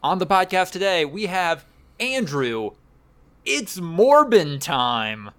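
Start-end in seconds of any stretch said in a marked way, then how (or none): 3.5-5.3 meme catchphrase. Pretend. Host quoting meme catchphrase.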